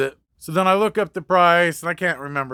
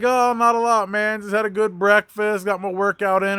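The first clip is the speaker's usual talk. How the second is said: higher, breezy friendly chatter; really nice; 4 semitones higher than usual. Retold or imitated. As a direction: play it casual and overly pleasant. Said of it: "he's, like, being really nice".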